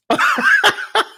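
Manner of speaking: squealing high laugh. Real, not acted. Recalling Minister John's videos, high laughter. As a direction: let out a high cackle.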